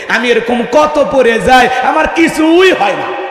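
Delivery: lightly voiced happy child, slow and high; a boy brushing off his scraped knee; little boy voice. Preacher voicing a cheerful boy, slow and high. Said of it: "ছেলে বলতেছে".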